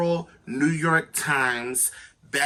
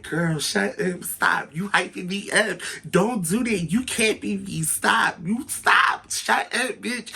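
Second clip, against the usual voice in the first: hyped-up reply; 5 semitones higher than usual. Retold or imitated. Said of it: "And I'm like".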